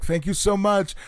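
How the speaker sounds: a touch of high-pitched gratitude; high mock thanks. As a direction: play a squeaky grateful girl. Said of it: "Tony was like".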